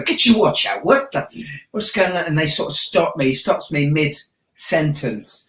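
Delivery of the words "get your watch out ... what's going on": high mock heckle from off-screen; background heckler. Imitating a heckler interrupting his own show, high. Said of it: "someone from the background go".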